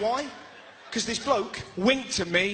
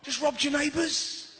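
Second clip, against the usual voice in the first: mock burglar; 6 semitones higher than usual. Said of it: "He's obviously going".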